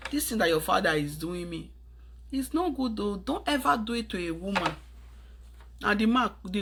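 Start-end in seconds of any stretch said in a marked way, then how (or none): 0.1-4.7 mother's advice to son. Retold or imitated. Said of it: "sit his son down and say".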